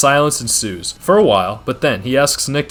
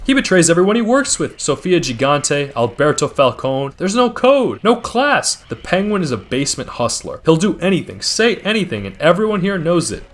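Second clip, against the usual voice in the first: higher, scornful voicing of a rival boss; a touch of contempt, pitched up; Zhao's scorn; 7 semitones higher than usual. Zhao dismissing Oz to the gathered bosses, pitched up in mild scorn.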